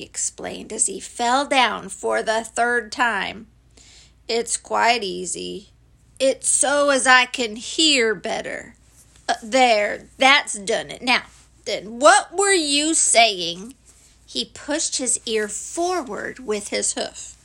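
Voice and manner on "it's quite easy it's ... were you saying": slow donkey character voice; lightly voiced dreary donkey; ponderous Eeyore. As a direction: plod through it deliberately. Eeyore cups his ear.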